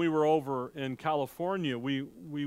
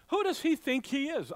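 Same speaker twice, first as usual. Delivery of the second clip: scornful scoff; 10 semitones higher than usual. Retold or imitated. Townsfolk scoffing at Jesus.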